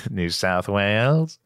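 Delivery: drawn-out Aussie twang, rising at the end; Australian accent. Acted. Host echoing co-host's place name, slow Australian accent. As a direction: slowly stretch it in an Australian accent. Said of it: "get into the Australian accent".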